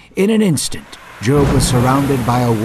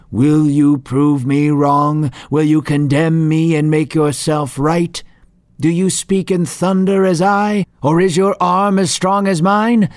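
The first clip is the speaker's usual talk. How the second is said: raised, booming voice of God; thundering voice; 3 semitones higher than usual. Acted. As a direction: thunder each challenge a bit higher. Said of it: "God's thundering voice arose again".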